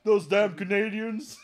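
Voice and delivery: loud comic grievance, words stretched out; mock outrage. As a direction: curse them with hammed-up indignation. Mock outrage in agent role.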